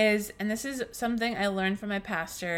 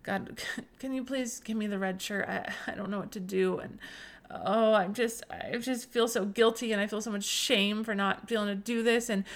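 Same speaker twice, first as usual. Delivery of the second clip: whining, begging prayer. Retold or imitated. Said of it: "this kind of whining, um, this begging, this pleading".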